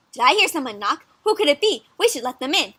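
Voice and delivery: lilting, inquisitive critter voice; little mouse. Acted. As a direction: ask eagerly as a tiny storybook mouse. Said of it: "says the little mouse".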